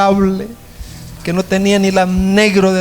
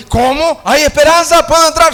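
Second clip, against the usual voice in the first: very high, louder, astonished questions; amazed hope; 10 semitones higher, 4 dB louder than usual. Acted. Singer asks the prince if there is hope, high and astonished. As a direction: gasp with sudden hope.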